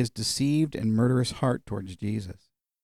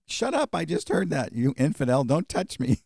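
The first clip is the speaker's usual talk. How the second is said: half-hearted retold fury, pitched up at the start; mock furious; 4 semitones higher than usual. Preacher imitating an injured man rebuffing the doctor, mock furious. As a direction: act out a furious patient without raising the volume. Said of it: "And he was furious".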